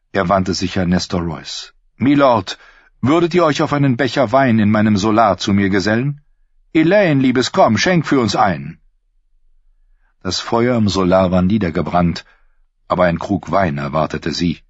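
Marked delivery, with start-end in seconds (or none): 2.0-8.8 a higher, gracious lord's voice; smooth courteous host. Acted. Lord welcomes the tired knights, higher and gracious. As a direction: play the silky host welcoming guests. Lord invites Nestor to wine.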